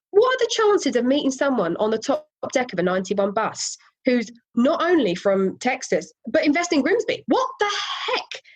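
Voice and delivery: retold astonishment climbing in pitch; amazed disbelief. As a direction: build to a high, incredulous finish. Retold amazement at bizarre coincidence.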